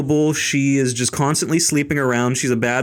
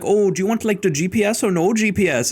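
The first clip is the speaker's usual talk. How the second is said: higher-pitched fake German accent; put-on German accent, pitched up; mock German accent; 5 semitones higher than usual. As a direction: imitate a rental clerk's random German accent. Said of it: "some random German accent".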